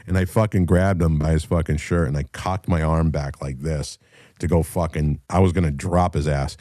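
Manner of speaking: ordinary talk, nothing marked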